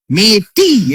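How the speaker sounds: "মেয়েটি" slowed, its ending drawn out; single out "মেয়েটি" slowly and firmly; emphatic pointing-out. Shown as a demonstration. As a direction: stretch the final "টি" of "মেয়েটি". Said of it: "এরকম যদি বলা হয়".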